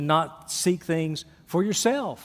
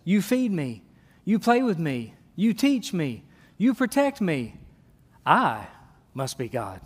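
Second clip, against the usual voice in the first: smug cat voice; 2 semitones lower than usual. Pretend. Preacher voicing a self-important cat to the congregation, smug and falling. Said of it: "A cat says".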